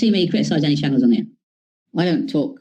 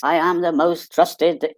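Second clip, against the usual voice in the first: mock pompous boast; much slower than usual. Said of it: "other channels that only believe".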